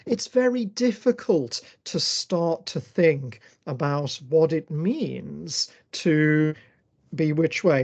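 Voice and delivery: put-on slow, drawn-out Scouse accent, only lightly done; a put-on Liverpool accent, stretched slowly. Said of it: "I'm just putting on that Scouse accent there".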